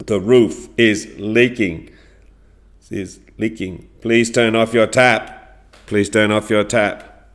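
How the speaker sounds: firm, forceful stresses, loud then easing on each repeat; very angry Toby. Acted. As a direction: play the annoyed downstairs neighbour. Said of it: "he's very angry".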